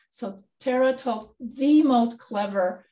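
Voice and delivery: slow, leaning on "the" before most clever; stress on the. Shown as a demonstration. Teacher reading the test sentence, stressing "the". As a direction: press "the" to show the superlative. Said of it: "the is used as emphasis".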